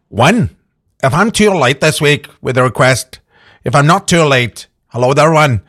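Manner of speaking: reading out a message in a hammed-up Northern Irish accent; lightly put-on Northern Irish lilt, reading a listener email; mock Northern Irish accent. Host reads Eleanor's request in a mock Northern Irish accent. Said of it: "after that fantastic accent".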